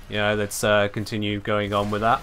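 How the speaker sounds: flat, droning, no rise or fall; monotone voice. Shown as a demonstration. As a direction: drone it out without any emotion. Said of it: "very monotone voice where they just say things".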